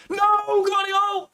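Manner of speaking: high, drawn-out slow wail of alarm; panicked cry. Real, not acted. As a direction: stretch it out in real dread. Panicked cry at defender's risk.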